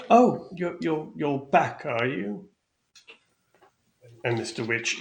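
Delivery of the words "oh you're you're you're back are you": higher, slow, knowing servant voice; sly Thako. Acted. Sly servant teasing the returning guest. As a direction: drawl it out with a knowing smile.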